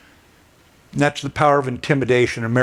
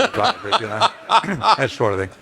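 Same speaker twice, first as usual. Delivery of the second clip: chuckling through the words, much higher; a real laugh breaking into the aside; 9 semitones higher than usual. Real, not acted. General laughing at his own joke to the audience. Joke about the prisoner's 401k.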